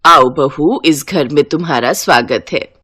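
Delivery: lightly voiced mother-in-law; welcoming mother-in-law. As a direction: welcome the new bride home.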